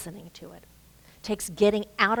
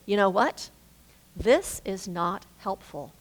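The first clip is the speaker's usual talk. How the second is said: measured rebuke. Retold or imitated. Spouse answers the nagging partner, measured rebuke. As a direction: state it deliberately, pausing after the question. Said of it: "she looks at me, and she goes".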